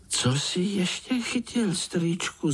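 put-on high, eager little-boy voice; curious little spider. Little spider Pája eagerly asking his uncle what else he caught. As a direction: ask wide-eyed like a small child.

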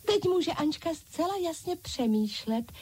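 high chorus of dolls repeating "Teď" gladly; dolls calling out. A narrator's reading. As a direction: echo it in bright high doll voices. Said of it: "zvolali ostatní panenky". (vysoké zvolání panenek)

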